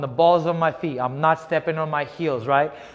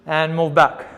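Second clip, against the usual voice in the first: boxing coach calling combos. Acted. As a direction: drive the class through the round. Coach calling drill live.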